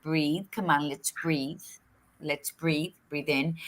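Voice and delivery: put-on soft, calming coax to a crying child; soothing coax. Aunt soothing an upset six-year-old, soft and calming. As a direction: gently talk him into breathing. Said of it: "I was like".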